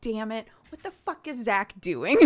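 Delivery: high, loud exasperated cry breaking into laughter; high laughing outburst of disbelief; mock exasperation. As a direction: throw up your hands at Zach, laughing. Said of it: "And I'm like".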